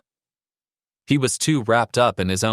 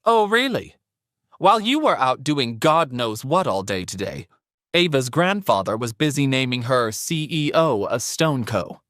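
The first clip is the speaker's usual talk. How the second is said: higher, mocking mother-in-law voice; haughty older woman; 5 semitones higher than usual. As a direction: play a smug mother-in-law. Narrator voices Sandra.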